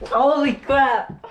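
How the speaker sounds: slow, stretched holy crap; drawn-out surprised gasp of words; shocked exclamation. Real, not acted. Shocked after being shot.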